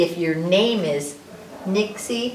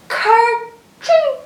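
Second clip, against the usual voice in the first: loud, high two-beat burst; playful exclamation; 10 dB louder than usual. Acted. Sneeze-like word in a rhyme.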